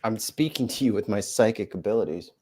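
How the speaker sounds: a hint of a mystic psychic; lightly hammed-up fortune teller. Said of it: "Psychic voice".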